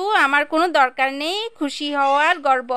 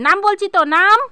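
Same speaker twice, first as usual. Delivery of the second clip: stern order; 5 semitones higher, 5 dB louder than usual. Acted. Mother orders child down.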